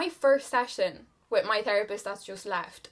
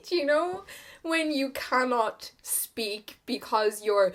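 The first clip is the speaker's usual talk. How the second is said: usual speaking voice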